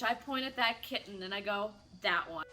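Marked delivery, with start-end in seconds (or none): 2.0-2.4 lightly voiced cartoon little girl; a hint of cartoon-kid impression; Lilo. Child picks out a kitten, lightly voiced cartoon kid. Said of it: "like Lilo from Lilo and Stitch".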